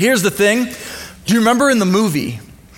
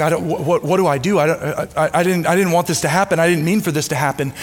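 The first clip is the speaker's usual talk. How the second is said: panicking; 2 semitones lower, faster than usual. Retold or imitated. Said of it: "Simba starts panicking".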